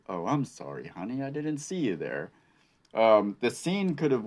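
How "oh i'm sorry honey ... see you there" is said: casual. Retold or imitated. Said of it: "He looks around so casually".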